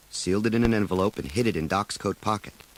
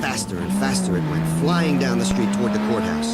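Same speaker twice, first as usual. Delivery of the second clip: building excitement; 9 semitones higher than usual. A narrator's reading. Building action narration.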